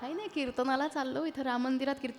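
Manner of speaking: quietly explaining you're off to kirtan; meek reply. Acted. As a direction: answer shyly, a little sheepish.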